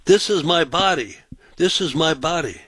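imitating the screaming woman, pitch up; mock scream. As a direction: repeat it like she shrieked it. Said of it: "she starts screaming to me".

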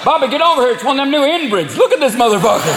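hammed-up small-town Southerner, pitched high; high-pitched mocking yokel voice; Southern gas station local. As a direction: holler to a buddy like a rural Southerner. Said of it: "especially in the South".

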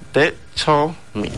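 "Dai Cho Mi" said slowly, syllable by syllable; sounding out words. Shown as a demonstration. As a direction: spell out "Dai Cho Mi" in slow even syllables. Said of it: "Very, very simple to say".

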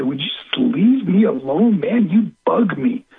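rude brush-off. Retold or imitated. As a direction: brush mom off rudely, dragging it out. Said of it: "I'd be so rude to my mother".

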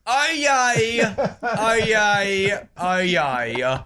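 half-hearted crier call, dropping away; boring New Zealand crier. Pretend. Host redoing the cry as an Aucklander, underwhelming. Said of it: "Don't sound so boring".

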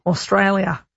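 attempted Australian accent. Shown as a demonstration. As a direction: say AUSTRALIA with a put-on Aussie accent. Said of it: "My Australian accent is absolutely abysmal".

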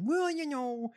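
lightly mimicked politician's anecdote; Haley Stevens. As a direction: imitate a rehearsed politician answer. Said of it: "then they went to her and she said".

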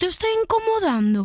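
high, drawn raspy imitation; rasping voice. Shown as a demonstration. Guest echoing the host's character line, rasping. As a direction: tear the voice in mimicry. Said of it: "Un poco más rasgado, si puedes".

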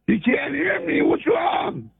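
caller yelling down a bad line; yelling on phone. Real, not acted. Caller yelling to the host over a bad line. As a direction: shout to be heard on the phone.

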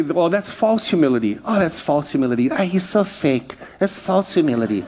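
sneering gossip voice; a hint of a snide churchgoer; mocking critics. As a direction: mimic a sniffy critic. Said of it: "you've heard people say".

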